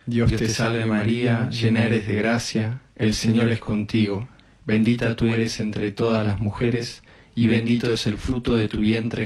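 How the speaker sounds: even, repetitive Hail Mary cadence; rosary prayer. Real, not acted. Leading a decade of the rosary, recited prayer. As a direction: recite it steadily on a nearly level tone.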